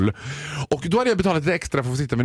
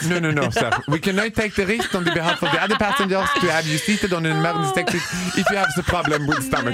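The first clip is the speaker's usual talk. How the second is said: laughing; 3 semitones higher than usual. Retold or imitated. Attendant refusing, laughing.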